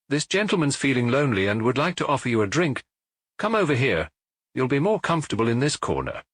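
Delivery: a hint of a friendly barman making small talk; lightly voiced bar owner. Proprietor introduces the girls.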